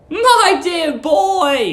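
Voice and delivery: put-on high, slow, sugary old lady; sweet landlady. Landlady luring the young lodger, high sugary coo. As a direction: coo at him like a doting landlady.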